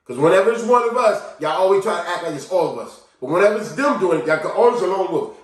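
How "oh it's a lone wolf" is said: higher mock excuse; scoffing imitation of others; mocking quote. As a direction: parrot a dismissive excuse. Mocking others' excuse, then rebutted.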